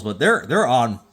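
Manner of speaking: tipsy stuttering over words. Real, not acted. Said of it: "I'm stuttering 'cause I've been drinking".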